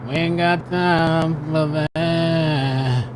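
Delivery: mock lazy cop voice. Mocking the cops' lazy excuse.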